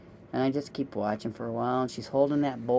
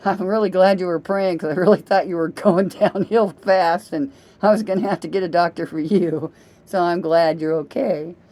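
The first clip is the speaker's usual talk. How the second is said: relieved apology; 5 semitones higher, 8 dB louder than usual. Retold or imitated. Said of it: "I went".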